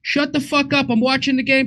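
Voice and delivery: high-pitched irritated husband impression; Bill Burr. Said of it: "a spot on impression of me".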